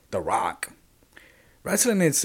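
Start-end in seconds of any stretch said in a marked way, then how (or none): 0.1-0.7 whispered. Real, not acted. Whispering a wrestler's name to the viewers. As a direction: breathe the name out like a secret.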